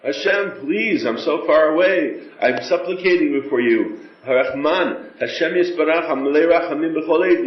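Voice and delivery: an intimate supplication in prayer; earnest pleading prayer. Shown as a demonstration. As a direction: beg Hashem from far away, sincerely. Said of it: "we gotta get used to saying words".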